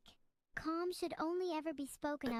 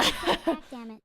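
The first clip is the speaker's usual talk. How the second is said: frustrated outburst; 12 dB louder, slower than usual. Acted.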